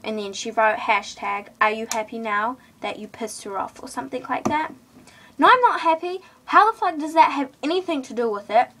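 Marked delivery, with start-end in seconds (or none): 5.4-8.7 indignant outburst. Real, not acted. Angry retort about Twitter post.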